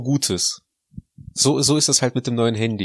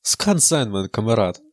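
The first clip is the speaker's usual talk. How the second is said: a hint of a Russian comrade voice; mock Russian accent. Needles his co-host with a mock Russian "Kamerad". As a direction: tease him with the Russian Kamerad. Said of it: "Jetzt hör auf damit!".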